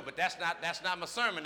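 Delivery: ordinary talk, nothing marked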